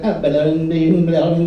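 mumbled nonsense incantation; mock speaking in tongues. Girlfriend blessing moon water, mock speaking in tongues. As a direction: fake speaking in tongues over a jar. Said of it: "speaking in tongues".

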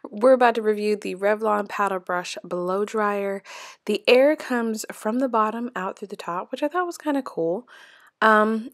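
talking while chewing gum. Real, not acted. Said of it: "sorry for the gum chewing that's about to be in this video".

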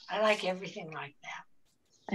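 whispered aside; a real hushed whisper under the host's talk. Real, not acted. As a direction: drop to a whisper, just for your neighbour. Quiet aside during cooking demo.

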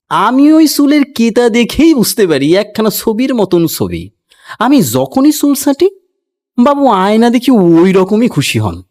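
a village barber bragging about his cuts; boastful barber. A narrator's reading. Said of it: "এক একটা character আছে এখানে".

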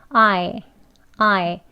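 I said as ah gliding into eh; diphthong ah-eh demo. Shown as a demonstration. Teacher repeating I with an eh ending. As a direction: drill the I vowel, ah then eh. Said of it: "에 하면서 이의 에 소리가 같이".

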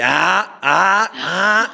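high, loud excited ah ah ah; fans excitedly shouting. Retold or imitated. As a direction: imitate fans squealing in the street. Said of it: "la gente me decía".

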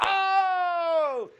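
sudden high surprised yelp; a real burst of surprise at the gamble; surprised shout. Real, not acted. Host surprised by the pick.

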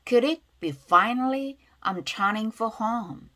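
slow model reading with "for" kept light; weak function words. Shown as a demonstration. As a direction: draw out "turning" and "home", weaken "for". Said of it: "관사 약하게 발음하고요".

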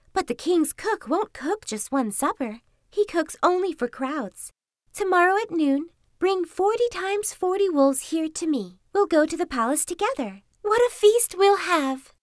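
high-pitched fox, building to excitement; scheming fox. A narrator's reading. Fox luring wolf to gather a pack, high and enticing.

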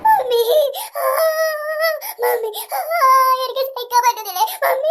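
put-on whimpering child calling out; a little girl wailing for her mother; tearful kid's call; crying for mummy.

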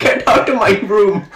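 high, slow cartoon king; King Julian. Cartoon king ordering someone out, high slow accent. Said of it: "my name is King Julian".

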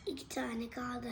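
talking with food in mouth; words round a bite; mouth full. Real, not acted. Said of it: "Yemek yiyorsun ya".

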